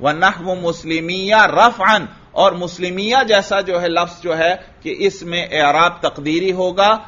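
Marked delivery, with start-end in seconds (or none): 0.0-2.1 text recitation. Shown as a demonstration. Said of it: "دیکھیے متن".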